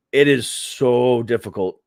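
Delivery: dry mock awe at how hard it is; sarcastic. Vlogger mocking the cognitive test, sarcastic. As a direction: lay the sarcasm on thick. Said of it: "hear the sarcasm in my voice".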